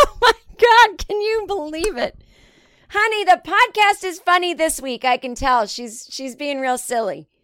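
high, gushing listener voice; mock fan gushing about the podcast; imagined fan voice. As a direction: play a gushing fan talking to her husband. Imagined listener voice, mocking herself.

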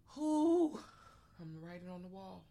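a hint of menacing Candyman; spooky villain voice.

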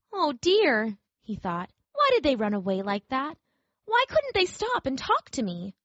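a hint of a lonely toy rabbit; sad little rabbit. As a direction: wonder aloud, lonely.

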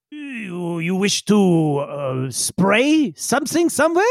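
put-on halting accented question, rising at the end; confused character. Yigsel puzzling over a shower, confused. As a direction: grope for the meaning, haltingly. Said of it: "he kinda looks confused".

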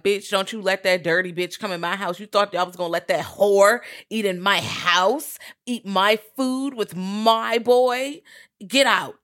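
a hint of the screaming mother, slowing on the last words; mock angry mother. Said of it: "she is like".

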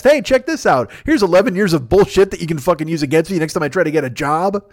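sudden high bright announcer pitch; mock excited pitch. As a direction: pitch it way up like a cheesy promo. Mock self-announcement of past.

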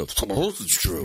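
drawn-out deadpan denial; matter-of-fact, slowed right down; low, slow deadpan. Shown as a demonstration. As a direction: say it slow and dead serious. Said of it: "say that line like that again".

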